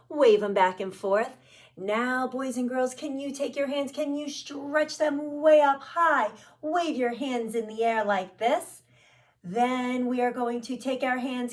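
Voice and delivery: bright singsong teacher voice; kids show host. Acted. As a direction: lead little kids through warm-ups. Kids circle-time warm-up.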